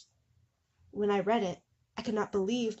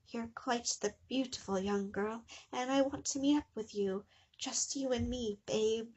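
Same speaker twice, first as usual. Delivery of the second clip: creepy soft suitor; 4 semitones higher, 5 dB quieter than usual. Acted. Salad Fingers speaking on phone.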